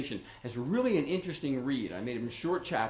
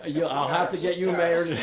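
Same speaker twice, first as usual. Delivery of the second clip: laughing; 4 semitones higher, 5 dB louder than usual. Real, not acted. Laughs at the mayor's trade joke.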